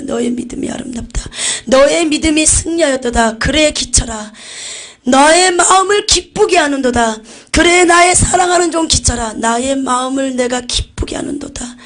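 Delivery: a milder echo of the joyful proclamation; joyful voice of Jesus. Retold or imitated. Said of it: "너무나 기쁜 음성으로".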